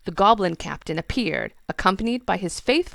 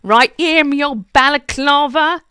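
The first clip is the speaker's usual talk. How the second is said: laughing; 8 semitones higher, 12 dB louder than usual. Acted. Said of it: "laughed B W".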